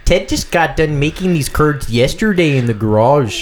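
folksy put-on Wisconsin accent. Shown as a demonstration. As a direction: chat neighborly in a mock Wisconsin accent. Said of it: "give me a Wisconsin accent".

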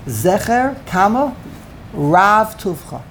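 Zecher rising, pause, then slow Rav Tuvcha; Zecher, comma, Rav Tuvcha, slow and phrased; comma after Zecher. Shown as a demonstration. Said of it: "is a comma there?".

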